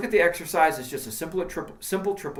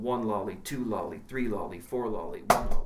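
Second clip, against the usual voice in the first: even sing-song lolly count, lower; counting triplets aloud; 4 semitones lower than usual. Shown as a demonstration. Teacher counting triplets aloud for the drum students. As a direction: count the triplets in strict time. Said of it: "we worked through all the triplet rhythms".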